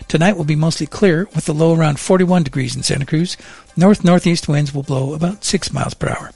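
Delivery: even, measured radio forecast delivery; weather read. Acted. Presenter giving Monterey Bay listeners the forecast, weather read.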